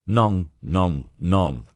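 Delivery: light French reassurance, non non non; reassuring. A narrator's reading. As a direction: gently wave away her worry. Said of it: "The detective quickly reassured her".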